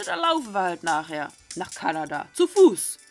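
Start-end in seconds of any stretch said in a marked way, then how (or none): 2.3-3.0 exclaimed. Real, not acted. Exasperated reaction to walking.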